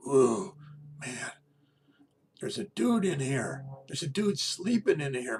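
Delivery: high, loud amazed mock burglar; high and loud, a startled burglar in the bedroom doorway; dreamed stranger's voice. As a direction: call out like a startled intruder who found someone asleep. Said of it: "and the voice said".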